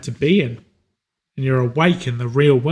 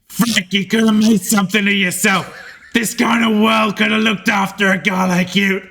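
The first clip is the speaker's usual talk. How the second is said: dying thug's last words; 5 semitones higher than usual. Acted. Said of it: "and he says".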